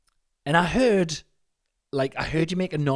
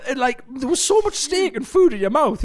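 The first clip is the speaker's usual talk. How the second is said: high-pitched laughing storytelling; 6 dB louder than usual. Real, not acted. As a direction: laugh through the telling. Laughing while retelling crying.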